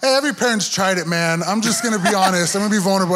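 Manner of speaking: excited confession. Real, not acted. Pastor owning up to the congregation, loud and excited. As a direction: rush to own up with a grin.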